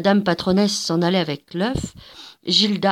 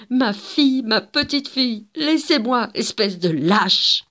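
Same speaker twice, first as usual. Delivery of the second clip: désespérée; 5 semitones higher, 4 dB louder than usual. Acted. Mère séparée de sa fille.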